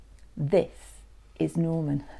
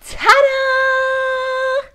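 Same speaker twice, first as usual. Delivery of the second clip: very high, loud, sung-out ta-da; triumphant reveal; 8 dB louder than usual. Acted. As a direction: present it with a long flourish. Norman reveals his new shell.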